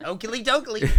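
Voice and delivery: a light stab at Ned Flanders, fast and chirpy. Retold or imitated. Podcast host trying Ned Flanders for Halloween, lightly voiced and quick. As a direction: toss off his catchphrase in a barely-there Ned voice. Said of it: "I gotta work on the voice".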